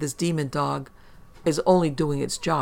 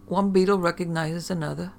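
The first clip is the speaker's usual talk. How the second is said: put-on Irish accent; 3 semitones higher than usual. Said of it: "she retorted in a beautiful Irish accent".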